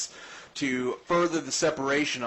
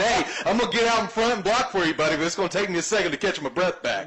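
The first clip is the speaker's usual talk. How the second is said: mock tired lineman; 6 semitones higher, 4 dB louder, faster than usual. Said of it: "He said".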